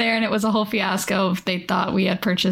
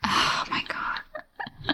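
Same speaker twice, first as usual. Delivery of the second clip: laughing; 7 dB quieter, much slower than usual. Real, not acted. Laughing breakdown.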